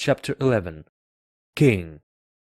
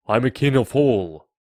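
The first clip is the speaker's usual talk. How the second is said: loud, proud royal declaration; boastful king; 2 semitones higher, 7 dB louder than usual. A narrator's reading. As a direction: proclaim it with raised voice.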